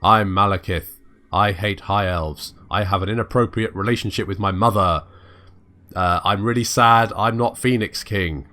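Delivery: lightly voiced evil elf king; Malekith impression. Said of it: "here's my impression".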